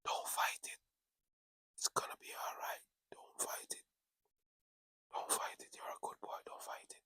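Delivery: hushed, voiceless whisper, coaxing someone to stop struggling; whispering to the victim to give in; whispered reassurance. Retold or imitated. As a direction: breathe it out like soothing a dying man. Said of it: "and we say".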